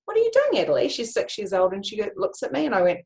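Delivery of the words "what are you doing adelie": playful question to daughter. Retold or imitated. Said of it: "I go up to her and I go".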